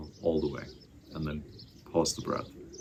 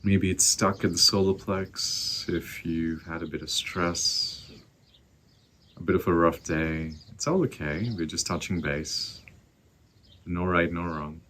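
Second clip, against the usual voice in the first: guided meditation; 4 dB louder than usual. Acted. Teacher guiding listeners to find their breath, calm meditation voice. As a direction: ease them into the breath.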